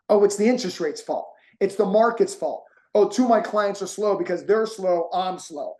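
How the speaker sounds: half-hearted impression of someone blaming the market; a hint of whiny excuses; mock blamer. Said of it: "everyone blames everybody else".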